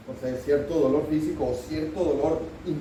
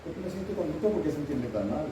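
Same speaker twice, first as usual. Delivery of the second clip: self-pitying inner voice; 7 dB quieter than usual. Retold or imitated. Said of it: "Y me dice".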